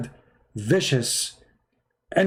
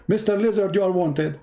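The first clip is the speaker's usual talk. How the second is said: mock summons; 5 semitones higher than usual. Muhammad summoning the lizard.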